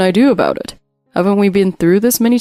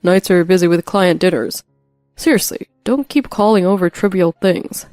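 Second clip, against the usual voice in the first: irritated husband; 3 dB louder than usual. Acted. Husband scolds wife.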